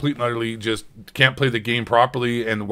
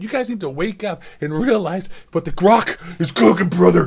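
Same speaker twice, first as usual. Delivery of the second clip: hyped rant bro; 4 semitones higher than usual. Pretend. Ironic red pill rant.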